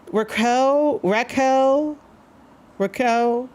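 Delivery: Raquel tried three times with a put-on Spanish accent, the r rolled and the end said like "koh"; half Spanish host testing a Spanish accent on Raquel, self-conscious; Spanish accent attempt. Shown as a demonstration. Host tries Raquel in a Spanish accent, worried it sounds white. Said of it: "I have to add, like, that Spanish accent".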